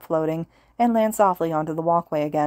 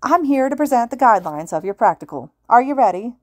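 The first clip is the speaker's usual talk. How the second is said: higher, louder radio host voice; loud announcer; 6 semitones higher, 5 dB louder than usual. A narrator's reading. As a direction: pump up the crowd. Hero addresses examinees.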